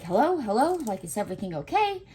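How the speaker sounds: quick, anxious hello, rushing the question; mild mock alarm, hurried; panicked phone answer. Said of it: "all in a panic".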